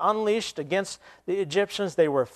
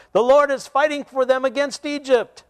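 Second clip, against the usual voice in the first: high, louder panicked shout; panicked soldier cry; 9 semitones higher, 5 dB louder than usual. Acted. Fleeing Egyptian soldier crying out, panicked shout. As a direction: cry out in terror of God.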